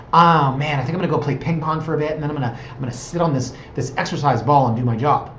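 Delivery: a touch of mock millennial chatter; millennial impression. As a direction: lightly mimic a breezy tech-office type. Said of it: "the millennial thing".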